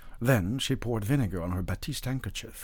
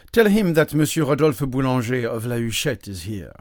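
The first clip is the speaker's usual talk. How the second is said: loud, higher self-introduction; raised voice, giving name and title; announcing himself; 3 semitones higher, 8 dB louder than usual. A narrator's reading. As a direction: announce yourself grandly to a servant.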